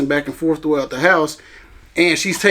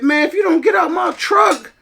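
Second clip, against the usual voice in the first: high, furious retold shout; angry yelling; 12 semitones higher than usual. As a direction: yell him out of the truck, hot with rage. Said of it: "I had to go off on her".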